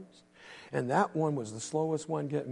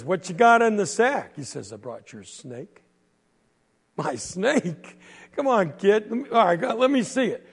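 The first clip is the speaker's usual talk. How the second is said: loud demand; 4 semitones higher, 6 dB louder than usual. Acted. Quentin demands to see.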